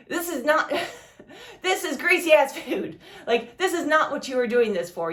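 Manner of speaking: breaking into laughter mid-lecture; laughing while scolding. Real, not acted. Laughing at a coworker's excuse while telling him off. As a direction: laugh through the words, still making the point.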